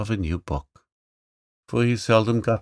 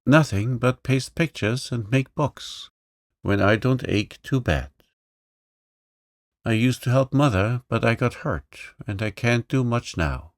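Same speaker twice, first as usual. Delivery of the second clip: higher-pitched, lightly voiced lame boy; meek little boy, a bit higher; young boy; 4 semitones higher than usual. Johnny's lines.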